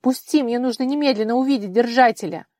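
loud, urgent demand to be let go; desperate plea. A narrator's reading. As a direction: push past her, desperate. Вара вырывается в отчаянии. (громко, отчаянно)

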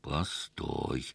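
soft, low command through the teeth; through clenched teeth. A narrator's reading. Husband halts his wife, a low command through his teeth. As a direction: stop her with a quiet order. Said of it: "приказал сквозь зубы".

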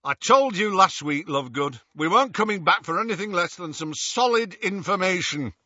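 high, rough, scolding thug; angry berating. A narrator's reading. Death Eater berates his captive.

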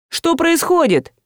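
high, slow baffled Что происходит; Что происходит asked in high bewilderment; bewildered question. A narrator's reading. Bewildered man asks.

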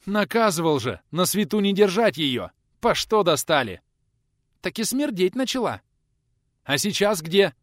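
loud reproach of the servants; angry scolding. Acted. Teacher scolds about the potatoes.

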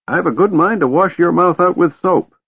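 put-on high, sharp old wizard scolding; old mage snapping. A narrator's reading. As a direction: scold him like a cranky grandfather. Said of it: "the old mage snapped".

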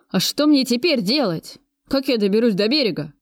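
a touch of plaintive whining. Acted. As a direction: ask pitifully, lost and helpless. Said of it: "жалобно спросил бандит".

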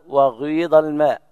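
وغيض with a brief u-rounding before the i; touch a rounded u at the start of وغيض; ishmam on وغيض. Shown as a demonstration. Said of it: "هكذا".

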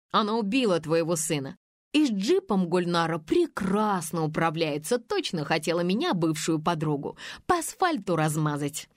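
a hint of a vengeful ex-friend spilling secrets; spiteful Faina. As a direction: narrator reading the spiteful ex-friend's tirade, lightly voiced. Faina's long accusing tirade.

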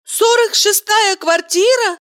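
Valeria echoing him indignantly; indignant woman. A narrator's reading. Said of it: "возмутилась Валерия".

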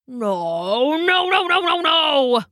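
cried. A narrator's reading. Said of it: "he cried".

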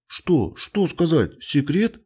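high, eager questions; bright-eyed boyish curiosity; excited child. A narrator's reading. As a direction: beg to hear the secret. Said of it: "глаза заблестели".

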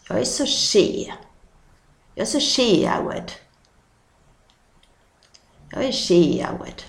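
sheawed in Scanian dialect; dialect word. Shown as a demonstration. Teacher showing the Scanian word for tired. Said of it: "man är trött på det".

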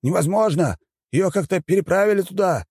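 high panicked shamans' cry; shrieking shamans. A narrator's reading. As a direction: voice the squealing shamans. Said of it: "заверещали шаманы".

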